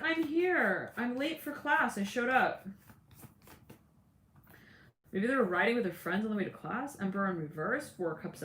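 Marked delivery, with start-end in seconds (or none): 0.0-2.7 quick high voice, a bit flustered; high flustered excuse. Retold or imitated. A latecomer to class explains herself, high and flustered. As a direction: play someone late for class, blurting it out. Late student rushing in apologetic.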